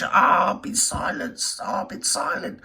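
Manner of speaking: slow unvoiced mocking moan; mocking whine. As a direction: drag out a whiny fake lament. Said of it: "She's like John Wedge".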